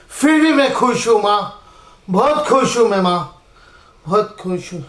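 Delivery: insisting he's happy until the words die away; fading bitter happiness. Acted.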